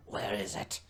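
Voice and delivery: low rasping whisper of a shadow; raspy shadow voice. Acted. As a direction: rasp it like something in the dark. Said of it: "this raspy voice say in shadow tongue".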